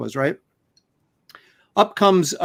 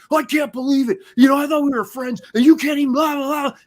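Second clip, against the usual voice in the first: higher, hurt, ranting complaint; mock the furious guy storming off; imitating an angry rant; 8 semitones higher than usual. Angry fan venting at the artist before storming off, mock rant. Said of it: "He was so pissed".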